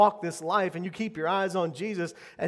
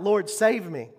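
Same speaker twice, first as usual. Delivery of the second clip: loud, high cry of a sinking man; shouted plea; 3 semitones higher, 6 dB louder, slower than usual. Retold or imitated. Peter sinking in the sea shouts for rescue, loud and high. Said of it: "And he shouted out".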